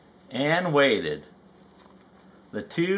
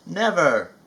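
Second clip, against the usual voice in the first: sad; 3 semitones higher than usual. Acted. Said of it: "Rabbit asked sadly".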